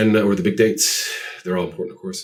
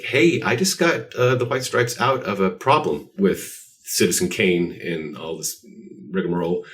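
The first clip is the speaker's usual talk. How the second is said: lawyer's brisk rebuke; 4 semitones higher, 4 dB louder than usual. Retold or imitated. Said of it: "she's like".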